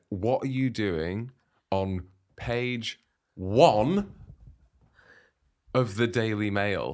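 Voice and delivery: very slow, with long pauses around "page one"; dramatic reveal. Retold or imitated. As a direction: spell out "on page one" piece by piece for effect. Dramatic reveal of what messages said.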